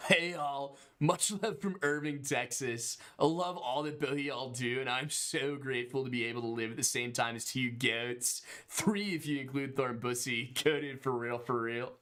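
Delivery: a thick Delco Pennsylvania accent. Shown as a demonstration. Host translating a Texan donation into a Delco accent. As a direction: read it like a Delaware County local. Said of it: "allow me to translate".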